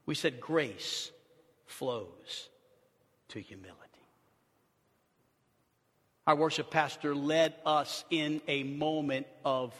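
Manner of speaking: soft, low, intimate preaching; hushed reverent sermon. Acted. Pastor softly reflecting on grace to his listeners. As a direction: draw them close, almost confiding.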